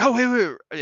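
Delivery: quick, high retold interjection; retold sudden remembering. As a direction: imitate someone abruptly remembering. Anesthesiologist suddenly remembers something.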